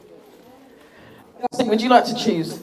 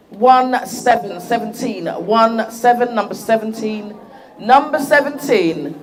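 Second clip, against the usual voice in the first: number caller. Real, not acted. Calling raffle number to crowd.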